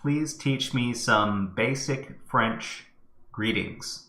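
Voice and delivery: slow, carefully spaced request to a machine; deliberate voice-command delivery; dictating to microphone. Real, not acted. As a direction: dictate it word by word. Let's do it with the microphone.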